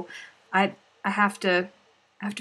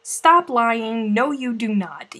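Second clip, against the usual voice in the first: scolding; 4 dB louder, slower than usual. Pretend. Scolding imagined mother Susan.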